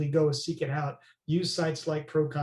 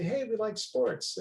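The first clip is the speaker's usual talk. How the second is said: friendly hey; 6 semitones higher, slower than usual. Pretend. Imagined friendly greeting.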